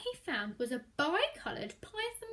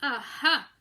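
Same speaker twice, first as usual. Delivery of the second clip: knowing aha; 3 semitones lower, 6 dB louder than usual. Acted. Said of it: "said the snake".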